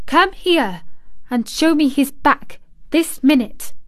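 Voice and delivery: high, firm orders; commanding. A narrator's reading. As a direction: give the order, no argument. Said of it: "she commanded".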